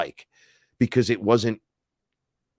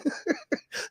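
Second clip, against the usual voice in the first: laugh; 7 dB quieter than usual. Real, not acted. Laughs at his own retelling.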